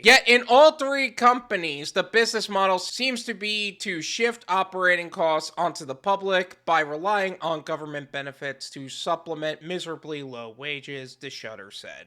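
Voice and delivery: even, low-key reading of a report; article read-aloud. Real, not acted. Host quoting a news article to viewers, measured reading. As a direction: read it out, sinking low at the end.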